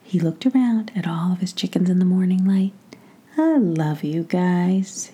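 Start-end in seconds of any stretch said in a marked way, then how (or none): 3.4-5.1 slow, soft and tender; quietly. Acted. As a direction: say it slowly, full of affection. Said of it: "he said quietly".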